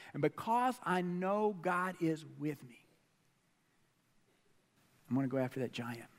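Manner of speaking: low, soft, fast determination; David quietly vowing to Saul; quiet resolve. Retold or imitated. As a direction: say it low and certain. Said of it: "David resolves".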